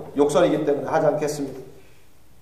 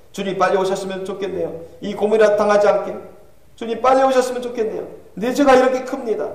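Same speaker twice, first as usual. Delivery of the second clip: lightly voiced damned soul's lament; a touch of anguished prayer; Calvin pleading to God; 3 semitones higher than usual. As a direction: beg the Lord in despairing appeal.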